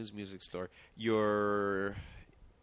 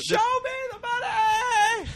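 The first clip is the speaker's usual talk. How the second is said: shout; 8 dB louder, much slower than usual. Acted. Shouted movie catchphrase.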